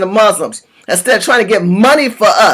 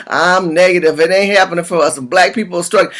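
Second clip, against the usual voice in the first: mocking complainers; 5 semitones lower than usual. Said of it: "y'all talking about".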